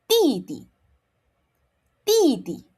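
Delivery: Didi as titi with unaspirated t; correct demo. Shown as a demonstration. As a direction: repeat Didi without blowing. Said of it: "you say it like this".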